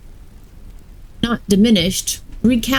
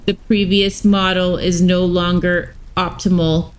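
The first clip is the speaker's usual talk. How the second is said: lightly voiced robot warden; even, mechanical robot delivery. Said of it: "had robot voices".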